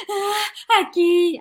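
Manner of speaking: high mock tearful kid; crying child. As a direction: answer through fake sobs. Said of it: "él llega llorando". (niño lloroso fingido, agudo)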